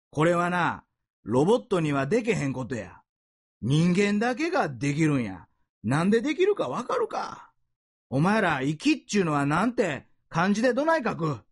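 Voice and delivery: lightly voiced Kansai teacher quizzing students; a touch of the stern Osaka band director; Osaka dialect teacher. Preacher retelling the teacher quizzing his students, light Osaka dialect. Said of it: "その顧問の先生がこう教えてるんですね".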